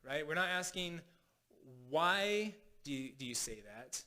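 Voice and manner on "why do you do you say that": slow question with weight on WHY, then dropping away through THAT; drawn-out WHY that trails down to THAT; challenging WHY. Shown as a demonstration. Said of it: "big difference between asking why and asking what".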